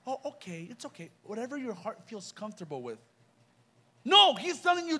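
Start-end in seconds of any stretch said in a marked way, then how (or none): 0.1-3.0 soft, lax, overly easygoing voice; a hint of a pushover God shrugging it off; mock permissive God. Preacher mocking a lenient God to the youth, soft and lax.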